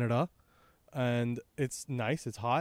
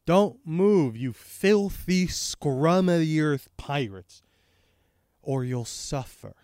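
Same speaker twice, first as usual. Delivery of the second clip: retold stern warning; 2 semitones higher, 4 dB louder, slower than usual. Garp warns the pirates.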